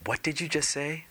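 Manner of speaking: shocked. Acted. Husband shocked by wife.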